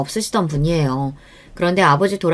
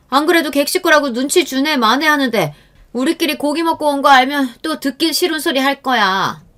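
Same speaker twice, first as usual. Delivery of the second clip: raised voice; 7 semitones higher than usual. Acted. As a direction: raise your voice out of guilt. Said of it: "언성을 높이며 말했어요".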